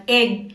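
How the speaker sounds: एग with a short "eh"; short E sound. Shown as a demonstration. Teacher giving a short E example, "eh" in एग. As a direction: open एग on a brief "eh", as in एड़ी. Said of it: "एड़ी वाली जैसी आवाज".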